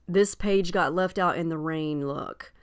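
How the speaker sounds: normal talking voice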